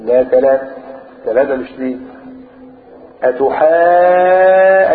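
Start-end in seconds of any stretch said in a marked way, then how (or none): 3.2-4.9 أتحا- with the alif held very long; stretched madd. Shown as a demonstration. Teacher shows students the madd, very drawn out. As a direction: hold the long vowel in أتحا-. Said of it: "أدي مد أهو".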